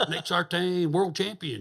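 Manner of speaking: high mock drunken holler of a name; drunk calling out. Drunk men outside the trailer taunting the champion, mock holler.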